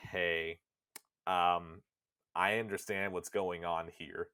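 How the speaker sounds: low, hesitant, measured voice; Weiss. Acted. Book companion breaking news to Nier, low and hesitant. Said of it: "Weiss is just telling you".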